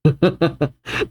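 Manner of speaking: acted villain chuckle; short mock-evil laugh. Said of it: "Killingham laughs".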